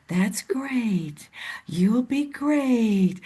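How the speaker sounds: slow, soft and encouraging; quiet encouragement. Retold or imitated. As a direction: calmly lift them up, letting them shine. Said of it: "Brenda just sits back quietly".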